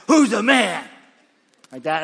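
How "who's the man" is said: louder, laughing challenge; hearty call-out. Retold or imitated. Friend prompting the pastor, laughing loud call. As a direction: throw the question out with a grin. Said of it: "He goes".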